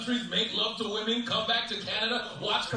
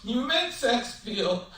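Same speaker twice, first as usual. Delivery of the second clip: hammed-up sobbing, words broken by gasps; slow, halting imitation of a tearful breakdown; mock crying; 8 semitones higher, slower than usual. Girlfriend crying mid-argument to her boyfriend, mock sobbing. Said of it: "she broke out crying".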